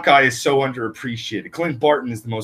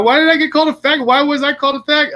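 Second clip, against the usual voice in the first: high, rising mock-hurt voice; bewildered protest; 6 dB louder, much faster than usual. Young comic fan protesting being called names, high bewildered squeal.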